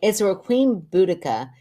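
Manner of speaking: measured podcast story reading; even-paced reader's voice; reading letter aloud. Acted. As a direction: read a listener's letter out clearly. Reads listener's letter aloud.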